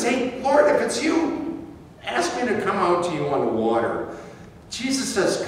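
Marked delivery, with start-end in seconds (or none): 0.0-4.1 higher-pitched opening, settling to usual pitch; lightly voiced Peter. Peter calls to Jesus across the water, lightly acted call. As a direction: call out to the Lord, starting high.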